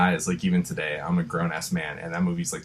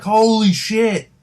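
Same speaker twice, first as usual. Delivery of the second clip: shocked; 10 semitones higher, 4 dB louder, much slower than usual. Retold or imitated. Shocked reaction to a death.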